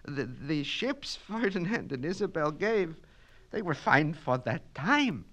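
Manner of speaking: pleading. Acted. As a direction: gently beg him to stop.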